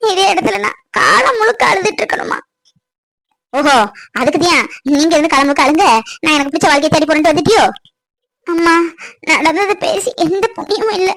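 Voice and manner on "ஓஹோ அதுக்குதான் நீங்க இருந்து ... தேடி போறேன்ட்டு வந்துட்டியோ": sarcastic retort. Acted. Mother mocks daughter sarcastically.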